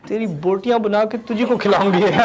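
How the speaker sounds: mock Urdu mom threat through laughter; hammed-up threat, half laughing; laughing parent threat. Teacher quoting a parent's Urdu threat, laughing. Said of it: "the stuff they say in Urdu".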